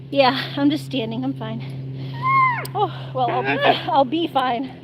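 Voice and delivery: winded, catching breath. Real, not acted. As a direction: talk while out of breath. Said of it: "I just need to catch my breath".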